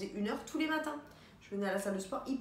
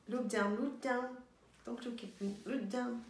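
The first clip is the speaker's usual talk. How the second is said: Impression of a pop singer; 2 semitones higher than usual. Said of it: "elle imitait une chanteuse pop".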